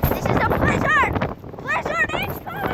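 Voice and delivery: high, excited announcing. Real, not acted. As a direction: hype up the storm. Excited vlog about the storm.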